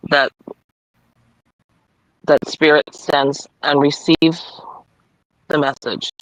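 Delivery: measured read-aloud with long pauses; affirmation card reading. Acted. Reader giving Debbie her awareness card, measured affirmation reading. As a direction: read it out deliberately, phrase by phrase.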